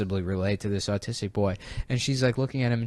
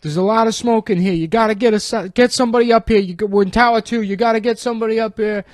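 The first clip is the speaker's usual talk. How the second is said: mock panicked caller; 9 semitones higher, 5 dB louder, faster than usual. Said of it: "people are like".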